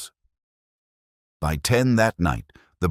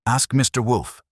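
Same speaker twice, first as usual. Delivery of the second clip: a sharp, higher, louder snap at him; snapped; 8 semitones higher, 4 dB louder than usual. Acted. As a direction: bite the line off, fed up and defensive. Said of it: "she snapped".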